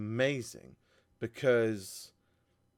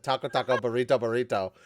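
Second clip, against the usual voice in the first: Cartman quote; 4 dB louder, faster than usual. Retold or imitated. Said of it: "I quoted Cartman from South Park".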